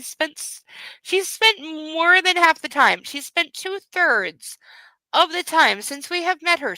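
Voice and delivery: can't believe how long she's been out; indignant reader complaining; exasperated disbelief. Real, not acted. Outraged rant about the book.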